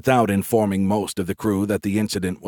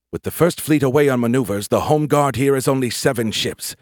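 raised, lightly voiced commander's briefing; tense commander, urgent; 5 semitones higher, 3 dB louder than usual. Commander lamenting his depleted fleet, tense. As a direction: state it urgently, pitch lifted. Brooke speaks to Chang.

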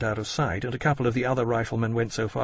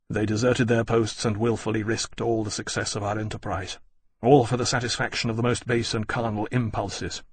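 flat. Acted. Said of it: "Lawrence said flatly".

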